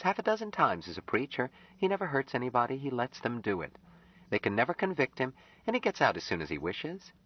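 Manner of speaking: put-on high, earnest young woman's voice; Anne. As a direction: voice Anne, pleading gently with Jubal.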